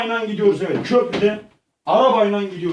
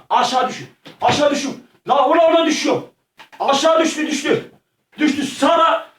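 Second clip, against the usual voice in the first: alarmed shouting; 5 semitones higher than usual. Pretend. Gamer watching Sara fall from the bridge, alarmed high shouting. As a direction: yell in horror as she drops.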